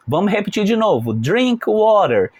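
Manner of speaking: drink water drawn out very slowly; slow model phrase. Shown as a demonstration. Teacher repeats the phrase for students, very slowly. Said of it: "Então eu falo".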